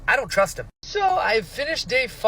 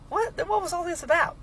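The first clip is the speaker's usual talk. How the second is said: higher, fast outraged disbelief; incredulous; 10 semitones higher than usual. Retold or imitated. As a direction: blurt it out in disbelief. Outraged reaction to betrayal.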